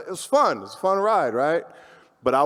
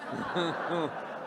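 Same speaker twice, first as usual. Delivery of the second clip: soft laugh; 4 semitones higher, 11 dB quieter than usual. Real, not acted. Laugh after joke.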